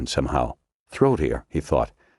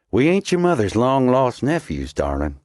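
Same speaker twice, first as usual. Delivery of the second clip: mocking commando; 8 semitones higher than usual. A narrator's reading. Commando taunts Snow with a sneer. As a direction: toss it off with contempt.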